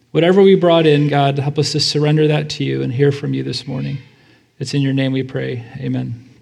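even, subdued praying voice; prayer. Real, not acted. Pastor praying over the congregation before the reading, subdued prayer.

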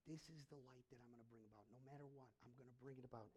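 soft, low, hushed promise; tender promise. Retold or imitated. God tells Joel of hope, soft and low. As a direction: point to the hope gently. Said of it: "and then he goes".

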